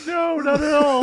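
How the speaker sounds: high, loud mock-laughing denial; imitated laughing outburst. Cohost imitating actress on talk show, loud laughing denial. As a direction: bust out laughing through the answer. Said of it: "she just busts out laughing".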